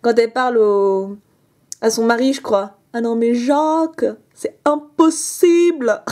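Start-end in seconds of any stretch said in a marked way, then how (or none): 2.9-6.0 slow posh-lady drawl; drawn out like a bourgeois lady; accent bourgeois. Retold or imitated. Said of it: "j'ai imité l'autre". (imitation traînante de bourgeoise)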